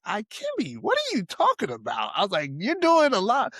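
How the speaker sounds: mock skeptical brush-off.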